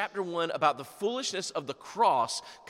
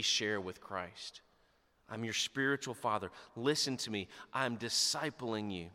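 fatherly tenderness; 7 semitones lower than usual. Retold or imitated. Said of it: "fatherly tenderness".

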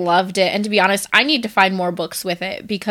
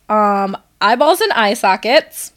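trying not to laugh. Real, not acted. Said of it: "I'm gonna try to keep a straight face for this".

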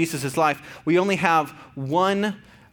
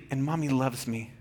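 gentle bedtime affirmation; 3 semitones lower, 6 dB quieter than usual. Retold or imitated. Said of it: "I'll say".

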